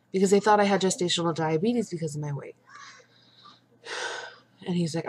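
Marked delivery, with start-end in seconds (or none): 0.1-2.5 frustrated. Real, not acted. Venting at doctors.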